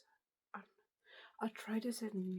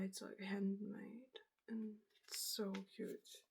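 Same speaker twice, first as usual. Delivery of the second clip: ASMR whisper. Real, not acted. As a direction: breathe the words out gently.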